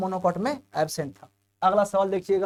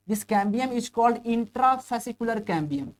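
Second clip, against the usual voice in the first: slow dictation; 3 semitones higher, much slower than usual. Shown as a demonstration. Teacher dictates term slowly.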